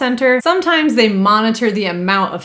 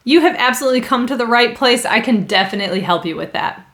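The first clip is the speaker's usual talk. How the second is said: reassuring; 3 semitones higher, faster than usual. Shown as a demonstration. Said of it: "two acceptable responses".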